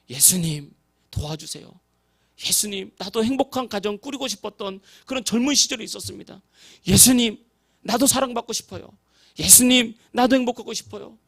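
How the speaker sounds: desperate prayer building from hushed to loud; pleading prayer. Retold or imitated. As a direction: cry out to Jesus for help, then drag out the last plea. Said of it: "기도를 하기 시작했는데".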